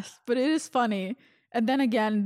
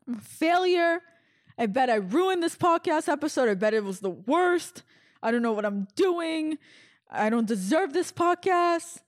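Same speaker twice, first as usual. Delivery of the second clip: higher-pitched whiny self-pity, dragging some words; mock crying; 4 semitones higher than usual. Podcaster retelling her own meltdown at home, mock crying. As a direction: melodramatic tearful wail, only half-serious. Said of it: "I'm crying and I'm just like".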